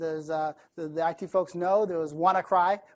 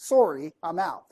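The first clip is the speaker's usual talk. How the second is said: lightly imitated Canadian accent, polite apology; a hint of Canadian on a rounded "Sorry"; Robert's Canadian accent; 3 dB louder than usual. Investor too nice to turn down a pitch, light Canadian accent. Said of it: "That's his accent".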